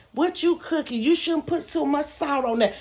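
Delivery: high nosy busybody voice; nosy old woman. Retold or imitated. Mocking the nosy old woman in the kitchen, high and prying. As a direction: mimic the snooping landlady, prying and judgy. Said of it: "snooping and being nosy".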